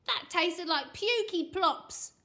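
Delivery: put-on revolted boy's protest; disgusted shout. A narrator's reading. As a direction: punch each disgusting word. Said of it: "screamed Frankie".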